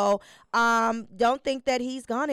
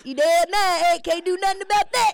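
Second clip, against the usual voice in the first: joking; 6 semitones higher, 7 dB louder than usual. Real, not acted. Dark joke.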